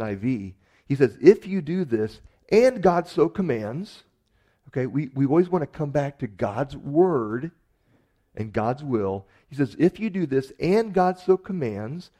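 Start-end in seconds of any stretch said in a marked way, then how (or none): 1.2-4.0 "and God so commands" pitched high and loud, drawn out; raised, weighty stress on "and God so commands"; emphatic verse quote. Acted. Quoting a favourite verse with emphasis. 9.8-12.1 raised, deliberate stress on "and God so commands"; emphatic verse quote. Acted.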